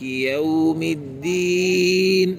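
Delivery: very slow, drawn-out Quran recitation with every sound carefully articulated; slow, chanted Quran recitation in the style of Husary; slow tahqiq recitation. Shown as a demonstration. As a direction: recite Al-Fatiha in the tahqiq manner, stretching each madd. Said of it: "ایسے پڑھیں گے نا آپ".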